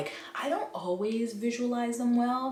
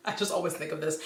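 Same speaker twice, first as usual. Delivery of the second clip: quicker, with a laugh at the start; 3 semitones lower, faster than usual. Real, not acted. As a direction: laugh it off and rush it. Repeats line laughing, faster.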